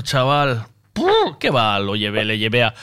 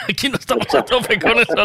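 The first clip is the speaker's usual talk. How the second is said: imitating the shopkeeper; 6 semitones higher than usual. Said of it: "le dice a una clienta".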